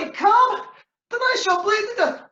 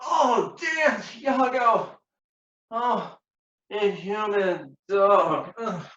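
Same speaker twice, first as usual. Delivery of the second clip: high, slow death moan; dying groans; 5 semitones higher, slower than usual. Acted. Stabbed Rodrigo curses Iago as he dies, slow wailing groan. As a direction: drag the words out through agony.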